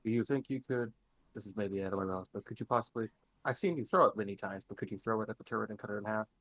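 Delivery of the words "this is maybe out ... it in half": muffled voice. Real, not acted. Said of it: "you sound a little muffled there".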